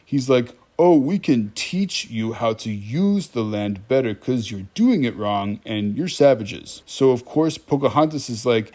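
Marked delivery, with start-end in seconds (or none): 0.8-6.8 slow, patronizing imitation; mock condescending. John Smith lecturing Pocahontas about her land, condescending. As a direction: talk down slowly, imitating a smug explainer. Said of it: "his response is really condescending".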